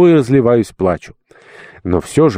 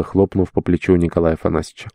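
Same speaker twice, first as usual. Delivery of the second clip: ordinary delivery, nothing marked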